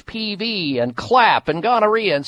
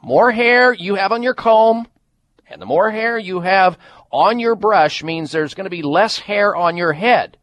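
upbeat ad read for a hair product; infomercial. Acted. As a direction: pitch it like a radio spot. Host reads hair-loss ad.

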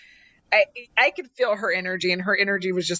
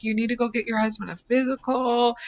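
gentle hint. Retold or imitated. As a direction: ease it in gently, no pressure. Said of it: "trying to kinda tell her a little bit".

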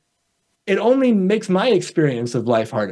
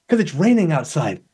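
mildly grumpy. Retold or imitated. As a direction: grumble it like the rain ruined your day. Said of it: "I'm so angry right now".

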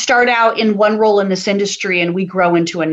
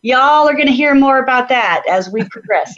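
Southern accent; 4 semitones higher than usual. Shown as a demonstration. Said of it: "I'm picking up on my s-, new Southern accent".

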